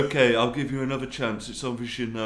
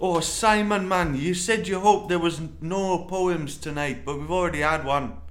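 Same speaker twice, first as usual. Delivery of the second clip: higher-pitched put-on accent drifting Irish; accent slipping into Irish; 6 semitones higher than usual. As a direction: attempt an accent that keeps going Irish. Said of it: "it's going more Irish".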